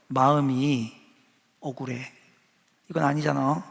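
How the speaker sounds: aggrieved. Retold or imitated. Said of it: "하고 하나님께 그렇게 말하고 싶은".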